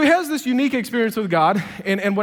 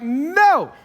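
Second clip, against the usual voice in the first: protesting refusal; 3 semitones higher than usual. Retold or imitated. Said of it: "he's like".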